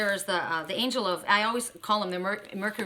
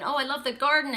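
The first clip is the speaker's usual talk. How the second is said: lightly acted sunny enthusiasm, higher pitch; happy and bright; 5 semitones higher than usual. Cheerful visitor viewing the studio, mock bright excitement. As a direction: gush a little, imitating a delighted visitor. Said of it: "You come in all happy and, and bright and excited".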